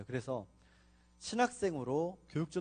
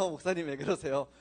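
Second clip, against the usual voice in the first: 목사님 왜 그러세요 said through an awkward laugh, a bit louder; 4 dB louder than usual. Retold or imitated. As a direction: laugh it off uneasily. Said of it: "어색한 웃음".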